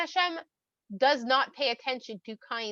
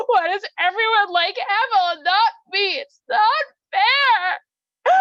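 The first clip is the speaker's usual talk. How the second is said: jealous whining rant; 3 semitones higher, 7 dB louder than usual. Acted. Cain complaining that everyone likes Hevel more, whining into tears. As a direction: let the self-pity grow until it breaks into crying.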